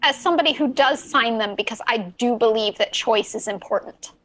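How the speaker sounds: put-on light, vaguely British pirate accent. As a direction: keep the pirate voice going while making a point. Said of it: "it's Talk Like a Pirate Day".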